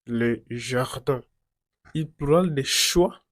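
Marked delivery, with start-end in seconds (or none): 0.0-1.2 slow, careful model of "jardin", no final n sounded; French pronunciation. Shown as a demonstration. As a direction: say "jardin" slowly as zhar-dan, French r. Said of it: "La pronunciación no cambia".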